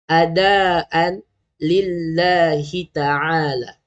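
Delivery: drawn-out, chanted Arabic intention; slow niat recitation. Shown as a demonstration. Teacher reciting the niat to parents, slow and chanted. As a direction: recite each word slowly for parents to copy. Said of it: "cara bacaan dia macam mana?".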